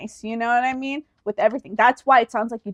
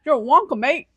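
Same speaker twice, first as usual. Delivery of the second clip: attempted British accent drifting into Australian; Australian-sounding British accent. Trying out a British insult on a co-host, Australian-sounding accent. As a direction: have a go at British, landing nearer Australian. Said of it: "That sounded so much more Australian".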